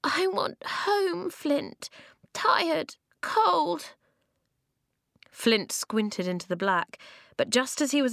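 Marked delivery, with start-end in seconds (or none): 0.0-3.9 put-on high, slow little child whining; a tired little kid wanting home; high childish whimper; small child voice.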